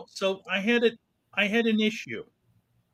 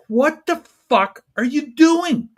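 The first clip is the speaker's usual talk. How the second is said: much higher, louder mock yell at the car in front; imitated road rage; 9 semitones higher, 6 dB louder than usual. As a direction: replay the furious car yell, loud and high. Retelling road rage at driver.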